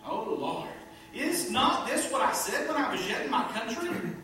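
loud, high, exasperated plea to God; complaining prayer. Acted. Jonah complaining to God in prayer, loud and exasperated. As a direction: throw the complaint right at God. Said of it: "he prayed to the Lord and said".

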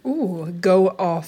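slow playful drawl; teasing. Real, not acted. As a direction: tease her like a proud friend. Teasing friend's treat.

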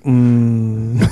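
low, soft sultry hum; a slow, seductive low murmur; sultry narrator. Retold or imitated. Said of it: "That soft, sultry voice".

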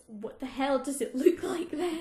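mock outrage through laughter; laughing angry quote. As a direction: laugh while quoting her fury. Angry girlfriend retold.

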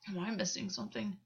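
a touch of vexation in character voice; puzzled and slightly put out; mildly vexed. A narrator's reading. Gwen questioning August's laugh, mildly vexed.

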